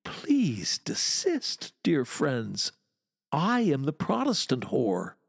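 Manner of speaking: lightly voiced honeyed mistress calming an angry mob; said very sweetly. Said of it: "and said very sweetly".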